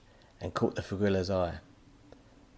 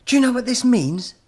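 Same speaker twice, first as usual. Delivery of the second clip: high, loud excitable professor; high cackling-edge professor voice; mad professor voice; 11 dB louder than usual. Acted. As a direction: play the wild-eyed villain scientist. Professor character voice.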